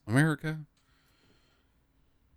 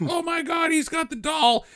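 mock alarm; 9 semitones higher than usual. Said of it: "and they're like".

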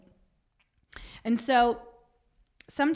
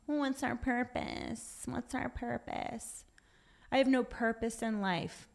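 mock crying; 3 semitones higher, 6 dB quieter than usual. Speaker mimics us all crying over lost purpose, mock crying. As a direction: whimper it quietly, as a put-on sob. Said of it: "Then we're all crying".

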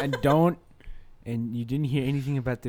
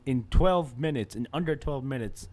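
panicked pilot rant; 3 semitones higher, 8 dB louder than usual. Pretend.

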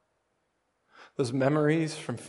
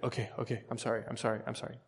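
much softer, small sorry voice; meek child apology; 9 dB quieter, much faster than usual. Retold or imitated. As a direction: shrink back and apologize quietly. Son apologizing meekly, retold.

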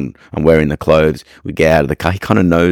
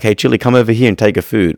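higher, bright call to the dog, retold; calling the dog over; 6 semitones higher than usual. Trainer calling his dog Chili over for food, upbeat higher call.

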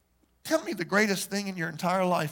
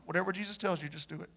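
soft and intimate; 3 semitones lower, 9 dB quieter, faster than usual. Real, not acted. Soft repeat of key line.

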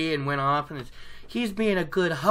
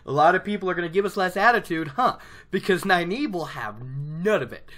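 happy excitement. Retold or imitated. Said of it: "I'd be happy about it".

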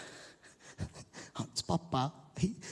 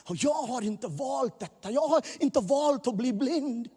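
anguished plea; 9 semitones higher, 5 dB louder than usual. Acted. Preacher voicing blind man's lament.

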